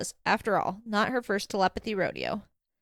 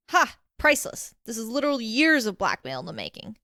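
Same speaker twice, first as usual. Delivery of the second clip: gleeful crowing. Acted. Alistair relishing blackmail material, gleeful and crowing. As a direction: crow over the news with glee.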